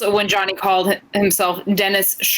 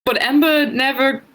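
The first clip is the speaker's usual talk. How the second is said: British accent. Shown as a demonstration. Co-host recapping a match on a dare, British accent. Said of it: "give us your English accent".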